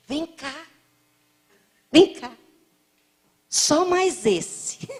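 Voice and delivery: put-on high, coaxing little old lady voice; the old woman urging the speaker to take another cake, high and coaxing; insistent old lady. Old lady insists on more food.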